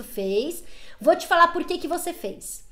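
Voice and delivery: ordinary delivery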